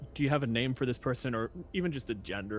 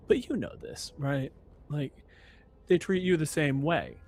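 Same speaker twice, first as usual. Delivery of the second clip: smarmy rock star voice; 3 semitones higher, 4 dB louder than usual. Acted.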